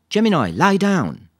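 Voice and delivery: loud, high, stretched-out order; firm dog command. A narrator's reading. Lisa makes a dog lie down, commanding. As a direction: call it out slowly and firmly to a dog.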